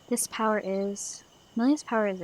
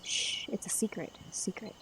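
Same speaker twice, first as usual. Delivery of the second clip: much softer hushed voice; secretive hush; 9 dB quieter than usual. Acted. Madman whispering secret.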